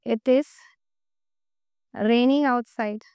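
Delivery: slow delivery with a long pause after the opening; slow dictation. Shown as a demonstration. Teacher answering her own translation question, slow dictation. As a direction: dictate it in two unhurried chunks.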